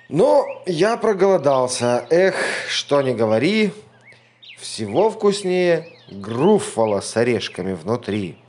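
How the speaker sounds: loud beast voice, smacking lips; hungry monster. A narrator's reading. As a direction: rumble it, thinking of dinner.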